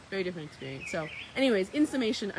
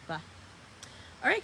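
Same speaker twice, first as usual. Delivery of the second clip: usual speaking voice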